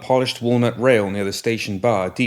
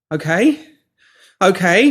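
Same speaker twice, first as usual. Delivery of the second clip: much higher, louder frantic begging; panicked pleading; 10 semitones higher, 7 dB louder than usual. Acted. Pinky pleading with the woman holding shears, panicked. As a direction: beg for your life, backing away.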